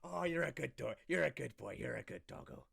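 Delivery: loud doting pet talk, settling at the end; fussing over a good boy; gushing dog praise. Acted. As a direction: coo over a big dog with delight.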